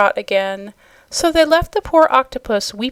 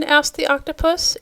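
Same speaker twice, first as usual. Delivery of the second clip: ordinary delivery, nothing marked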